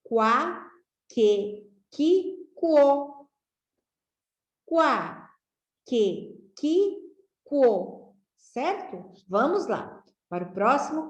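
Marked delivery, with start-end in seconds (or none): 0.0-3.3 Quá, que, que, quo each said alone and clearly apart; sounding out the syllables. Shown as a demonstration. Teacher sounding out Quá, que, que, quo for pupils. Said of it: "o som do que fica assim". 4.6-8.1 Quá, que, que, quo each said alone and clearly apart; sounding out the syllables. Shown as a demonstration. Teacher sounding out Quá, que, que, quo for pupils. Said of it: "o som do que fica assim".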